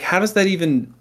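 baffled questions climbing very high; boggled disbelief. Retold or imitated. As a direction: build to a high, loud, bewildered outburst. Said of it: "boggled me a little bit".

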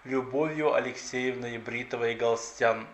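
measured, even broadcast announcing; calm radio programme announcement; radio announcer read. Acted. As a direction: introduce the next segment like a radio host.

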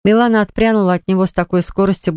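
plain reading voice

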